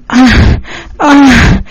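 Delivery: mild drawn-out cry; short acted outcry. A narrator's reading. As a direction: cry out, without full force. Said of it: "Ella grita".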